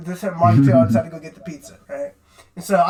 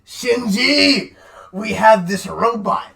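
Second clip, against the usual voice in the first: Shinji's dad; much slower than usual. Acted. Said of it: "his dad is like".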